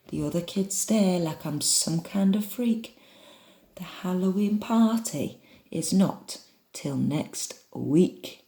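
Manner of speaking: imperfect put-on northern English; northern accent. Shown as a demonstration. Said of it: "practice my northern".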